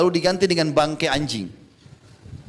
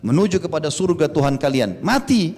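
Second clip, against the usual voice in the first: imitated battle rallying. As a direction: urge the troops on, pitch jumping on key words. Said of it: "kalau sudah motivasi pasukan mau perang". (menirukan seruan pembangkit semangat pasukan)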